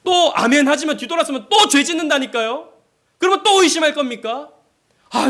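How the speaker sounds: high, loud pulpit exhortation; impassioned preaching. Real, not acted. Preaches at full force.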